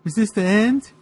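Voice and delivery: dramatic inner thought. Acted. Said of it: "the Boogeyman thought".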